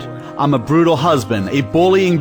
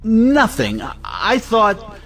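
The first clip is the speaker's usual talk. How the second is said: flustered backtracking; 8 semitones higher, much slower than usual. Acted. Caught out, backtracking in argument.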